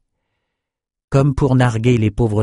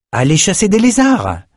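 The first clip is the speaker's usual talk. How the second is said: higher, louder command; Trevor's order; 11 semitones higher, 4 dB louder than usual. Acted. Trevor ordering the soldiers to hunt lizards, louder. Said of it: "ordonna Trevor".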